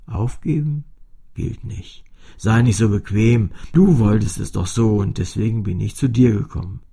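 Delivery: the cello telling Fini off loudly; scolding cello. A narrator's reading. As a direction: push her not to give up.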